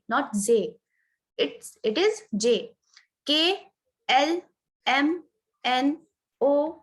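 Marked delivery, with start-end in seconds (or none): 1.9-2.6 very slow English letter name "J". Shown as a demonstration. Teacher insisting on the right J sound, slow. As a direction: hold "J" out slowly and clearly. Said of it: "Just pronounce it J".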